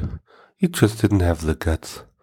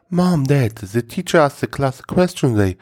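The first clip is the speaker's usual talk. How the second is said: put-on proud little boy voice; 7 semitones higher than usual. Boy proudly tells parents.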